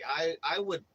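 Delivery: hammed-up nervous "I would believe"; nervous stammer. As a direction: play it as frightened agreement, tripping over words. Stammering reply to hitman threat.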